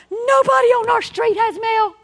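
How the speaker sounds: put-on high, loud, near-tears child wail; upset little girl. Daughter telling mom nobody has mail, loud tearful wail. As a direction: cry it out like a disappointed kid.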